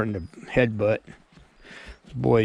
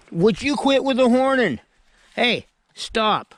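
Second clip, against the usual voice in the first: even higher exasperated scold; sharper scolding; 11 semitones higher, slower than usual. Real, not acted. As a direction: scold harder, pitch way up. Goat butting again.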